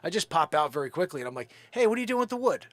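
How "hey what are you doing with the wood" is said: higher hailing call across the street; retelling how he hails the tree crew. Retold or imitated. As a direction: flag down the truck crew.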